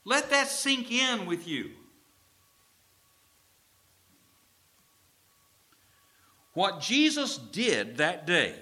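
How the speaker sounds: high, building preacher's cry; preaching at full force. Acted. Preacher pressing the point on the church, building proclamation.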